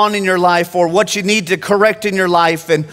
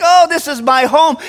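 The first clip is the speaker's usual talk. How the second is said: put-on higher, contented old lady voice; happy old lady; 6 semitones higher than usual. Preacher voices Miss Ruth calling church home, higher contented. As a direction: say it as a glad elderly woman. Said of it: "She's like".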